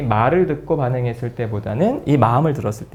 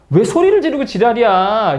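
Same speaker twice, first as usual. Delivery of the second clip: higher-pitched, irritated comeback; acted-out quarrel; mock angry retort; 7 semitones higher than usual. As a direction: fire back as the offended friend. Acted quarrel, friend snaps back.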